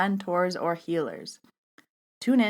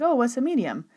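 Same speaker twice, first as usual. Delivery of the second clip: lightly voiced puzzled guy, pitched up; clueless new guy; 5 semitones higher than usual. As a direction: ask like a baffled newcomer. Clueless new guy's question, retold.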